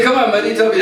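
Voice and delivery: a hint of a pleading child; lightly voiced boy begging; coaxing little boy. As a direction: coax them gently. Krishna pleading with boys.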